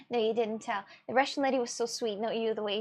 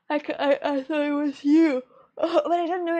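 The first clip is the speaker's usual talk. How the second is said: laughing; 3 semitones higher, 6 dB louder than usual. Real, not acted. Laughing at own mix-up.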